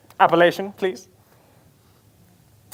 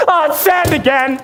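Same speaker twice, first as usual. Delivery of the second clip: surprised shout; 8 semitones higher, slower than usual. Acted. Pirate discovers sand in trunk.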